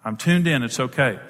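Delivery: softening, settling reassurance; reassuring. Acted. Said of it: "it's got to communicate security".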